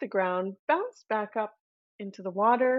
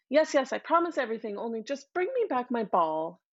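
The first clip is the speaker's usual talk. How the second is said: quick, dismissive mock princess brushing it off; tossed-off careless promise; flippant; 3 semitones higher than usual. Princess impatiently promising the frog anything, flippant. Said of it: "flippantly said".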